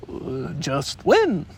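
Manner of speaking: slow, hesitant dodge; a touch of squirming, slowly; uncomfortable. Acted. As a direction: stall for time, uneasy. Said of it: "said Tigger a little uncomfortably".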